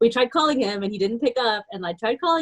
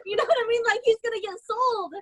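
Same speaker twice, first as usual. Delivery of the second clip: high-pitched, laughing through the words; retold panic dissolving into laughter; 12 semitones higher than usual. Real, not acted. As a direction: tell it helplessly amused, voice climbing high. Laughing while retelling his panic.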